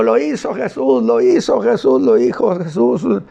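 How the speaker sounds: a healed man calling out his joy down the street; joyful shouting. Retold or imitated. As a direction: cry it out as he runs away, calming toward the end. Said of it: "se va gritando".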